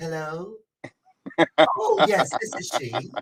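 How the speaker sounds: slow, put-on prim, standard-sounding polite voice. Recalling how a friend's mom answered the phone: imitating mom's white phone voice. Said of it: "my everybody got a white voice".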